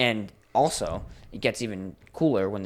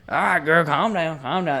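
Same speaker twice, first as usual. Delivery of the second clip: horse whisperer; 7 semitones higher, 6 dB louder than usual. Retold or imitated. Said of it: "Just fucking".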